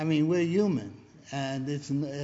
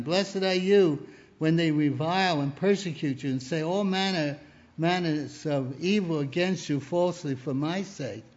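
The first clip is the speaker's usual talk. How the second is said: scripture reading. Acted. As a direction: read it out like scripture. Reads scripture aloud.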